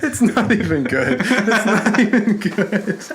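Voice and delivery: high, slow words through laughter; laughing. Real, not acted. Host cracking up at co-host's impression, laughing. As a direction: crack up while saying it.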